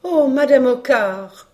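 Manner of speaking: high, loud, drawn-out gush; cry of admiration. Acted. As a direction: marvel aloud, stretching the words. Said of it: "poussaient des cris d'admiration". (cri d'admiration haut et traînant)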